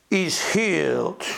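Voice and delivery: put-on slow, drawn-out accented English; lightly voiced foreign healer, calmly; heavy accent. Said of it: "met zo'n, eh, dialect".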